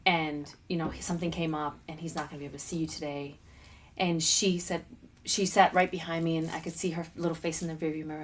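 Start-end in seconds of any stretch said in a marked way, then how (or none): 0.1-3.4 soft, gentle telling that fades lower and softer; mother softly telling her daughter dad isn't coming; gentle bad news. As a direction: break it to a child tenderly. Mother breaking news to child.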